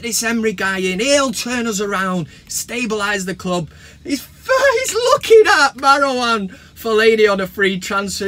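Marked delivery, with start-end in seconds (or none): 4.0-8.3 words breaking up with laughter; real giggly incredulity; laughing in disbelief. Real, not acted. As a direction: try to get it out while cracking up. Cracking up at the transfer rumour.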